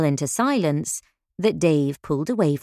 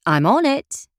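eager; 9 semitones higher, 3 dB louder than usual. A narrator's reading. Eager barmaid answering.

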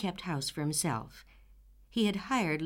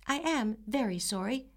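firm, higher, steady; 5 semitones higher than usual. Acted. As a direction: repeat it firmly. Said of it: "repeated Anne firmly".

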